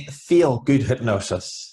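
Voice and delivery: slow, deliberate Carrickfergus accent. Shown as a demonstration. Guest saying company name on request, Carrickfergus accent. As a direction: show off your Carrickfergus accent, drawn out. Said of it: "that's my Carrie Ferguson accent".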